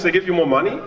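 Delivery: normal talking voice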